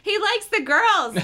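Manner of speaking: slow hammed-up aunt voice; leering aunt. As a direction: draw it out like a creepy aunt. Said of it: "Catherine repeated".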